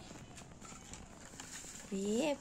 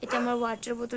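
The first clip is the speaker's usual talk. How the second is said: vlogger demo; 4 dB quieter than usual. Shown as a demonstration. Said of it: "এরম করে দেখাও সবাইকে".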